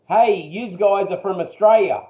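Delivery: broad Australian tourist, lightly imitated; retold broad Aussie greeting; imitated Australian accent. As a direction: mimic a fellow Aussie's accent. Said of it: "is that what we sound like".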